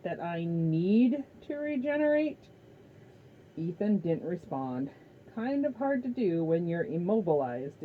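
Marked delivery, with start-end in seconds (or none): 0.0-2.5 mild hiss. A narrator's reading. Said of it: "Kronos hissed".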